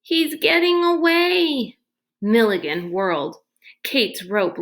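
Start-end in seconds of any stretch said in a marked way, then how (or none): 0.0-1.8 high, alarmed cry, slower. A narrator's reading. Boy spotting the prisoner fleeing, alarmed cry. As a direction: shout the warning as the man escapes. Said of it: "Sticky pointed and cried".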